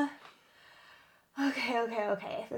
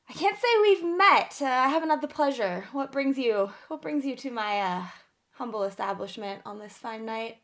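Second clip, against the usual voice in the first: Magnus, guarded but casual. Acted. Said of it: "acting, keeping it cash, keeping cool".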